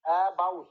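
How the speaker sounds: অ্যাবাউট split in two, the second part stressed; second-syllable stress. Shown as a demonstration. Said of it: "তাহলে দ্বিতীয় সিলেবেলে stress হচ্ছিল".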